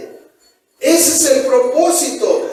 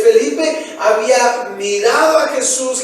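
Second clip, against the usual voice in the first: usual speaking voice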